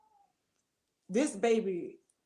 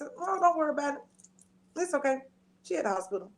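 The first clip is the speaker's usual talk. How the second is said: reassuring; 5 semitones higher, faster than usual. Retold or imitated. Reassuring niece on the phone.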